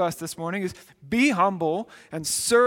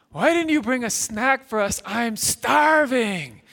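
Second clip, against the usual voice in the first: higher, drawn-out whine; whiny complaining kid; 4 semitones higher, 4 dB louder than usual. Retold or imitated. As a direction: kid in the back seat whining at dad for a snack. Kids complaining in the car.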